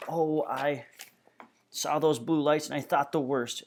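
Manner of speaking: a hint of a shaken mother's voice; worried mother. A narrator's reading. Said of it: "her hands are shaking".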